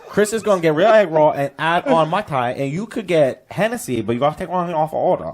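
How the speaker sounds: mock Chinese takeout server accent; put-on Chinese food-place accent; Chinese restaurant accent. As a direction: imitate a Chinese restaurant worker reading back an order. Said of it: "I'm doing a very specific accent of the Chinese food place".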